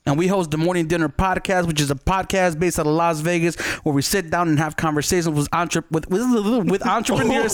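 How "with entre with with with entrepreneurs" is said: stumbling over the word. Real, not acted. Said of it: "Yesterday you said podcast".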